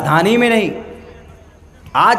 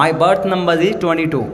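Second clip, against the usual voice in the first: clipped English accent; 3 semitones lower, much slower than usual. Shown as a demonstration. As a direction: chew the words like an Englishman, "berth number" said lightly. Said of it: "صحیح pronunciation انگریز لوگ ایسے بولتے ہیں، آدھے چبا کے بولتے ہیں".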